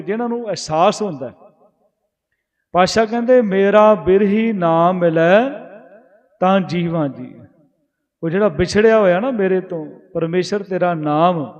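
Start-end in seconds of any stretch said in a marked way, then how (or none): 3.4-7.3 slow verse recitation. Acted. Preacher quoting the Guru's verse to the sangat, slow. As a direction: draw out the line, a little louder.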